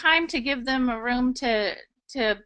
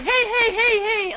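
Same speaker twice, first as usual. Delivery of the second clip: mock caller cutting in, higher and louder; loud firm interrupting; 9 semitones higher, 5 dB louder, slower than usual. Imitating a loud customer interrupting the agent, higher and louder. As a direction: imitate a pushy caller talking over her. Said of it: "unless they're very loud and, and very firm".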